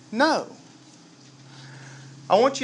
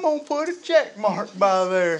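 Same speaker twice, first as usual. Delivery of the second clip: lightly voiced folksy God; mock deity tallying up good deeds; a hint of a cartoonish heavenly bookkeeper; comic voice of God; 3 semitones higher than usual. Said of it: "Please tell me God doesn't talk like that".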